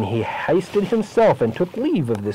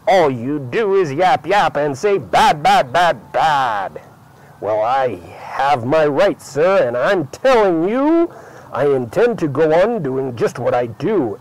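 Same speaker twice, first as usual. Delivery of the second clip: mild angry retort. Acted. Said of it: "I yelled at the Lorax".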